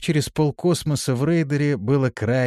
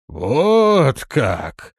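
drawn out; 4 semitones higher, 6 dB louder than usual. A narrator's reading. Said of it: "протянул хан".

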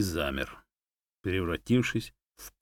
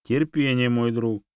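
louder, higher solemn call; 5 semitones higher, 6 dB louder, slower than usual. A narrator's reading. Monkey loudly making the dog wait. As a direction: declare it grandly. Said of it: "громко произнесла Чанга".

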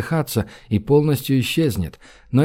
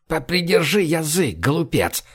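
sharp frightened hush, a bit higher; startled, scolding; 3 semitones higher than usual. A narrator's reading. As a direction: hush the fool before trouble comes. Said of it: "вздрогнул Гзирт". (испуганно одёргивает, чуть выше)

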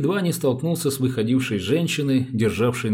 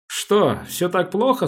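mildly sympathetic, pitched up; 7 semitones higher, slower than usual. A narrator's reading. Policeman asks woman about her troubled marriage, sympathetic. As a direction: ask with a touch of sympathy. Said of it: "сочувственно спросил Дрёмин".

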